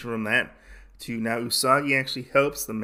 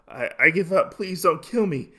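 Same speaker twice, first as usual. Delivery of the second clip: mock frightened pleading; 6 semitones higher than usual. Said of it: "he's trembling over".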